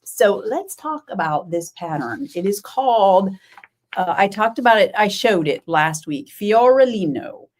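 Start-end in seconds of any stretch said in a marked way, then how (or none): 6.3-7.5 a light Italian lilt on Fiorellino; Italian accent. Shown as a demonstration. Knitter milks the pattern name Fiorellino for viewers, in a mock Italian accent. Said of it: "I have to say it with a little bit".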